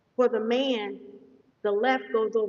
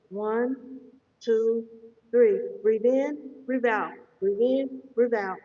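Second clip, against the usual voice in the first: breathing coach cues; slower than usual. Shown as a demonstration. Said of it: "I will demonstrate again".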